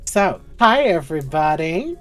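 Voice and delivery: cheery loud call to the table; call and response. Real, not acted. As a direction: call out hi to get them answering. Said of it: "this is the part where it's like call and response".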